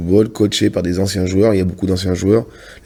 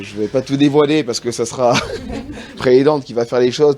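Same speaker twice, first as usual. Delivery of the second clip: laughing; 4 semitones higher than usual. Real, not acted. Laughs while teasing the reveal.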